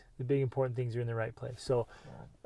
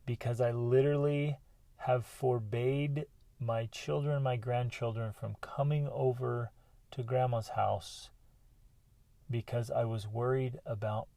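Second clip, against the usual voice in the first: understated remorse; 2 semitones lower than usual. Retold or imitated. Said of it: "she just breaks down, just sobbing, crying, just deep, deep, deep remorse".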